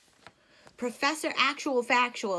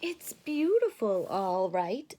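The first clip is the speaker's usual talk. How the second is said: lightly voiced Brother Bear; 4 dB louder, slower than usual. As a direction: agree like an eager boy.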